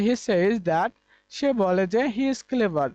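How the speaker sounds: very slow, word by word; slow example sentence. Shown as a demonstration. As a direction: read it out slowly for the class. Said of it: "যেমন বলতে পারিস". (ধীরে ধীরে উদাহরণ বাক্য পড়া)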